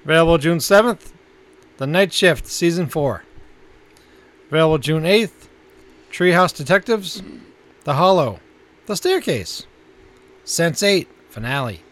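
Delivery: announcer-style list reading; listings read. Acted. Co-host announcing this month's new Netflix titles, measured announcer read.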